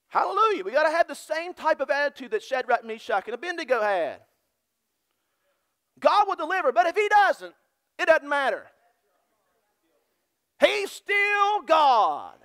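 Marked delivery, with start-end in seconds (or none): 6.0-12.4 rising preached declaration; preaching shout. Real, not acted. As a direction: drag out He's still God at full force. Preacher builds to climax.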